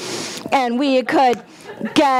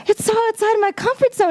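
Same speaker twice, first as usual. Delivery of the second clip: much higher, fast disbelieving protest; incredulous; 11 semitones higher, faster than usual. Retold or imitated. Speaker protesting to Spirit, high and fast in disbelief. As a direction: squeak out your disbelief. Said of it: "And I was like".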